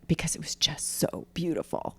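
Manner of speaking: soft, breathless whisper; awed whisper. Real, not acted. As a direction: whisper it in awe. Awed aside about the beauty.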